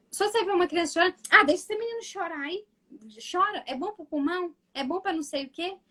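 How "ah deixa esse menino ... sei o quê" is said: dismissive adult. Retold or imitated. Imitating dismissive adults about crying.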